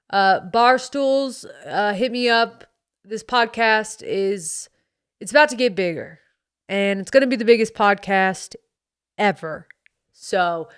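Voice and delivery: lightly voiced American bro accent. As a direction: slip back into the cocky bro character. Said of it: "this accent".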